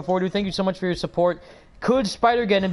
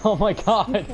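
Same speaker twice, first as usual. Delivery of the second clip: high, drawn-out fanboy protest; retold overwhelmed reaction; 5 semitones higher, much slower than usual. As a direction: wail it lightly through a laugh, overcome. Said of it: "I was so close to tears".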